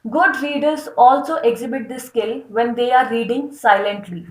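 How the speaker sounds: slow, deliberate reading of a definition; slow dictation read. Acted. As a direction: dictate it slowly for notes. Reads text slowly. (धीमे-धीमे परिभाषा पढ़ना)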